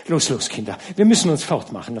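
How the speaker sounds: lauter, schneller, antreibend; drängender Ruf. Acted. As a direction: treib die anderen hinaus. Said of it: "rief Gaga immer wieder". (drängend gerufen, laut und schnell)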